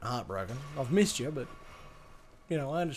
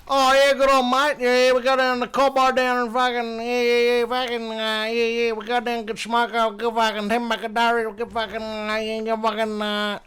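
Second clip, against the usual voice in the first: higher, sustained monotone stereotyped Aboriginal Australian voice; hammed-up Aboriginal Australian stereotype, pitched up; stereotyped Aboriginal Australian accent; 5 semitones higher than usual. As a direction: put on a rambling mock Aboriginal Australian accent. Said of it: "it's the stereotype, like, Aborigine in Australia".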